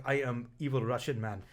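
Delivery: lightly put-on Russian villain accent, cheesy; a hint of a hammy evil Russian; mock Russian accent. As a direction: mimic a cheesy Russian accent in broken English. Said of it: "it sounds basically like this".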